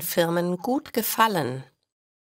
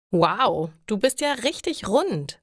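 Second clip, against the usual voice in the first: bright, raised call of surprise; excited call; 3 semitones higher than usual. Acted. Friend calls out on seeing the pregnant belly, excited. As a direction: greet her round belly with a cheery shout. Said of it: "ruft ihre Freundin".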